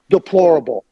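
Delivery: deplorable said with weight, falling; emphasize deplorable. Real, not acted. Host stresses deplorable about Boudreau's treatment, emphatic. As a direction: lean on deplorable to condemn. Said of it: "let me emphasize the word".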